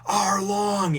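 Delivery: loud, high, drawn-out imitation of a wail; hammed-up anguished yell; mock tearful cry. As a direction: cry the name out long, as if through tears. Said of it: "she starts crying".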